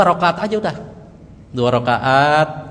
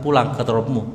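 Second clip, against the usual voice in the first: angel's gentle words; 2 semitones lower than usual. Retold or imitated. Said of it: "Sambil malaikat bilang".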